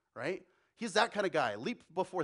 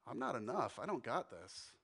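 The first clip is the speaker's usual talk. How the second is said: despairing Thomas; 5 semitones lower, 6 dB quieter than usual. Acted. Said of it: "Thomas looks at his empty hands".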